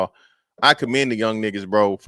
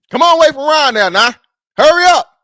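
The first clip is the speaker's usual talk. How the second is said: put-on old country accent, very high and loud; 10 dB louder than usual. Acting out embarrassing a son at school: old country man voice. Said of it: "talk like an old country nigga on purpose".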